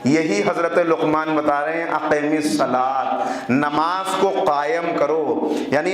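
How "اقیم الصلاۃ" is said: slow Quranic recitation. Acted. Quoting Quranic verse in sermon.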